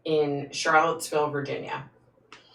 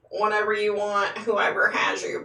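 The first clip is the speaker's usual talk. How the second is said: lightly mimicked pleading, pitch raised; higher-pitched imitation of someone begging; imitated plea; 5 semitones higher than usual. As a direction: act out a video appeal in a higher voice. Imitates man's video plea.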